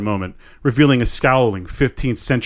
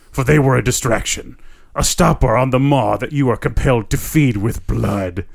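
growling voice. Acted. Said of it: "The growling voice responds".

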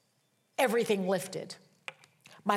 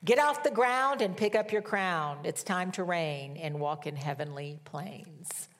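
prophetic word. Retold or imitated. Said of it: "this is what he said to me".

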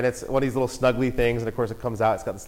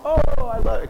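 high, louder gushing; princess delight; 12 semitones higher, 6 dB louder than usual. Retold or imitated. Belle imitated seeing the doll, high gushing voice. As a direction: gush like a storybook princess. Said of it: "and goes".

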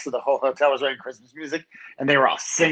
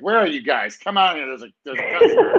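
louder, hurried mock summons; imitated walkie-talkie call; 5 dB louder than usual. Manager radioing idle bellmen to come out, mock impatient call. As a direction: call the crew out over the radio, half laughing.

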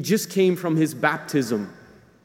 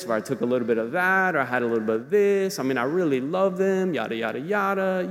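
rationalizing tempter voice. Pretend. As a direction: talk yourself into it, wheedling. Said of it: "reason is rationalizing".

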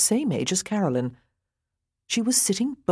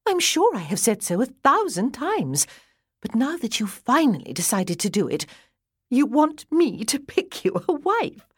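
higher, amused, holding back laughter; amused sister; 6 semitones higher than usual. A narrator's reading. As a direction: tease him through barely held laughter. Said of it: "Laughter bubbled out of her again".

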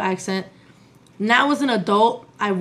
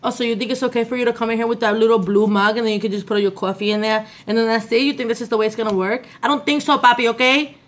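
sassy New York Latina. Acted. New York Latina telling off a man in her house, sassy. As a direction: tell him off with Bronx sass. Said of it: "Is that accent".

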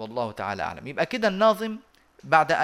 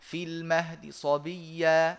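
slow recitation; much slower than usual. Shown as a demonstration. Teacher reciting the example for students. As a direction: chant في المهد صبيا, rushing the ha. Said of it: "هكذا".

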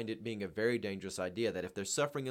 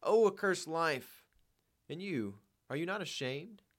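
loud, slow wail, then raised reproach; screamed reproach; 6 semitones higher, 3 dB louder, slower than usual. A narrator's reading. Poor woman reproaching her husband, anguished cry. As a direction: cry out, then shame him. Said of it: "the poor woman screamed".

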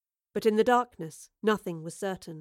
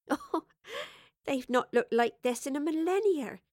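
small laugh, then higher amused words; chuckling; 6 semitones higher than usual. A narrator's reading. Evie correcting the professor about stars, chuckling. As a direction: chuckle first and lift the voice in amusement. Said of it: "chuckled Evie".

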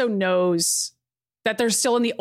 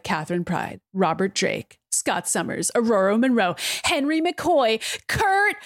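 escalating roll call; 2 semitones higher than usual. Retold or imitated. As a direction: build from muttered list to hammed-up cry on the last name. Acted roll call building to outburst.

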